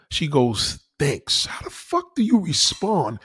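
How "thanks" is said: curt thanks. Retold or imitated. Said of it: "that's rude".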